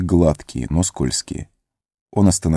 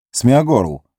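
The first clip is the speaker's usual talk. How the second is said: calling out louder; 5 semitones higher than usual. Acted. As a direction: call his name a bit louder. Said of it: "окликнул он громче". (зовёт громче)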